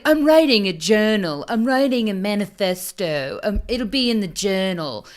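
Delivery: flat, smug imitation of the killer; lightly voiced killer brushing it off; mock killer voice. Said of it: "he's like".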